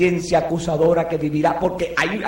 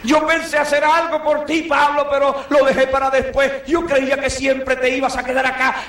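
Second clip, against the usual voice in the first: higher, pleading voice of a sorry believer; regretful church member; 6 semitones higher than usual. Retold or imitated. A church member lamenting to departing Paul, higher and pleading. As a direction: plead as if it's too late.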